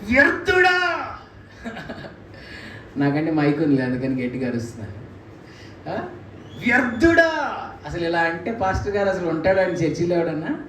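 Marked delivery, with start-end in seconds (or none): 0.1-1.0 "వ్యర్థుడా" shouted much higher and louder, falling hard at the end; stern loud rebuke. Shown as a demonstration. Preacher shows the congregation how the verse should sound, loud rebuke. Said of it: "ఎలా చదవాలి తెలుసా". 6.7-7.6 "వ్యర్థుడా" shouted much higher and louder, falling hard at the end; stern loud rebuke. Shown as a demonstration. Preacher shows the congregation how the verse should sound, loud rebuke. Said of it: "ఎలా చదవాలి తెలుసా".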